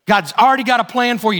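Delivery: normal talking voice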